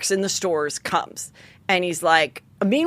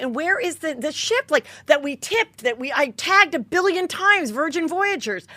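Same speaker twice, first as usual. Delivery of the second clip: higher-pitched, indignant questioning; indignant demand; 5 semitones higher than usual. Retold or imitated. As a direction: plead your case, aggrieved and high. Acted indignant demand to absent ship staff.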